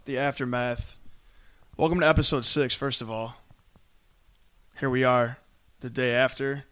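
hoarse, voice nearly gone; lost voice after screaming; raspy whisper. Real, not acted. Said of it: "I still do not have a voice from this game".

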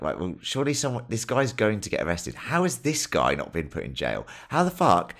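mildly outraged disbelief. Retold or imitated. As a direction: build a baffled protest, leaning on the absurdity. Retelling incredulous reaction to the film.

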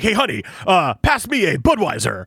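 lightly voiced promo announcer. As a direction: imitate an announcer making home chat sound like an ad. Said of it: "sound like everything he's saying is a fucking promo".

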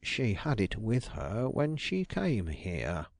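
a suave detective laying a trap. Acted. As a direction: slip it in smoothly. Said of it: "he added suavely".

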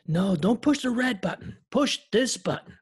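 high, loud raspy raccoon impression; Al Pacino Rocket voice. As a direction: growl it like Rocket doing Pacino. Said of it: "my rocket sounds like Al Pacino".

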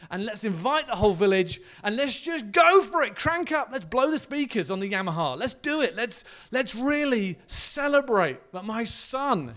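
crank it up, celebrate wildly; party-mad father. Retold or imitated. Father inviting the village, loud and exuberant. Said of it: "He's like".

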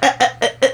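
repeated stuttered "uh" imitating an interrupter; imitated interrupting. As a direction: keep cutting in with "uh, uh". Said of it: "if somebody is just like".

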